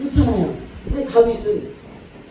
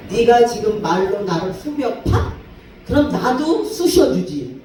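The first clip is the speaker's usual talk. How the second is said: mock retort; 2 semitones higher, 3 dB louder, slower than usual. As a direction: throw the jab back at her, deliberately. David retorting to mocking wife. (조롱한 아내에게 되받아치는 다윗, 천천히 쏘아붙이듯)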